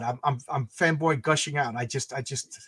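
stumbling over words from excitement; flustered stutter. Real, not acted. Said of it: "I'm, I'm stuttering right now".

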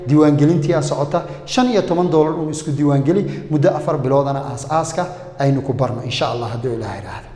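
brisk promo voice selling a course; ad read. Acted. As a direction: rattle it off like a radio ad. Ad read continues. (xayaysiis degdeg ah)

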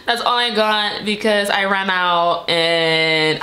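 slow, laughing through the words. Real, not acted. Admitting to viewers she only bought one thing, laughing. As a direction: let the laugh carry the line. Laughing about her small haul.

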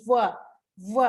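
"V" as f and w blended into "vuh"; blended V sound. Shown as a demonstration. Teacher explaining a blended f and w, "V" as vuh. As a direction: sound out "V" as vuh, lip on teeth. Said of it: "for fun กับ วอแหวน ควบกันนะคะ เป็น V".

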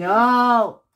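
loud, emphatic no; firm refusal. Real, not acted. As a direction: refuse the kiss outright, loudly. Child refuses mother's kiss.

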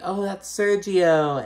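high, stretched-out cooing; mock delighted recognition. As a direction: imitate friends spotting someone they know. Acting out group spotting Sergio.

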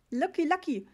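high, loud sales cry; excited market trader; enthusiastic vendor. A narrator's reading. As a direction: call it out eagerly to a tourist. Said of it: "rief er begeistert".

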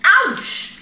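high, loud yelp; little panda's pained squeal; cry of pain. A narrator's reading. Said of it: "he cried".

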